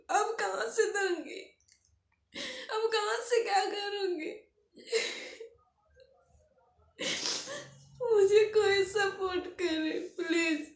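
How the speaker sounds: real tearful desperation, halting between phrases; tearful plea. Real, not acted. Struggling mother begging viewers for support, tearful. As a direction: plead for help, close to crying.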